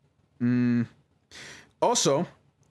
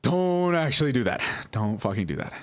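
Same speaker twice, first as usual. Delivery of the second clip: retold panic; 6 semitones higher than usual. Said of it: "I was like".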